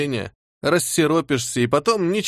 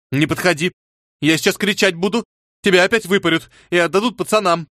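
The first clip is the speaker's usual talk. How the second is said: threatening shout; 6 semitones higher, 4 dB louder than usual. Acted. Girl threatens to scream.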